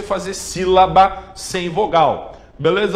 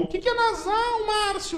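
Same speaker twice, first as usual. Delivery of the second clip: much higher, softer squeaky pupil asking; student voice; 7 dB quieter than usual. Acted. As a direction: play a timid student questioning the teacher.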